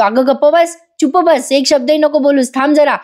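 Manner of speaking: lightly voiced exasperated order to stop talking; mild angry scolding. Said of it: "शेवटी आज संतापतो अर्जुन". (हलका रागावलेला नवरा, गप्प बसवणारा)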